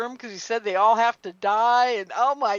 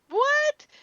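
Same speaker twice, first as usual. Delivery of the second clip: shocked what. Retold or imitated. Shocked reaction to hybrid-killing news.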